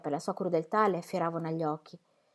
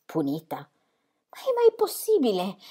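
anguished cry; 2 semitones higher, slower than usual. A narrator's reading. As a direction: cry it out, torn apart inside. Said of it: "gridò Ingeborg con lo strazio della voce".

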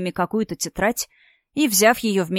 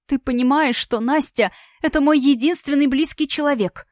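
high, thin, tearful squeak; 6 semitones higher than usual. A narrator's reading. Yulia pleading to Matvey about her only sister, in a high tearful squeak. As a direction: squeeze the words out higher as she cries. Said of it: "пропищала она".

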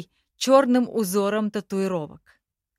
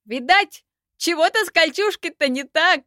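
much higher, louder squeaky goblin; Dara's voice; 8 semitones higher, 5 dB louder than usual. A narrator's reading. Dara teases Yoza about the mail, much higher. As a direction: needle the elf, shrill and loud.

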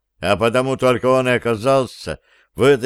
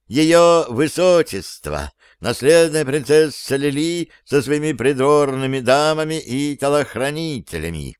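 herald announcement; 3 semitones higher than usual. Acted. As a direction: announce her grandly to the hall.

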